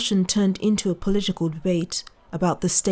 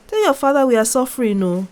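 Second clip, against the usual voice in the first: angry official; 5 semitones higher, 5 dB louder, faster than usual. A narrator's reading.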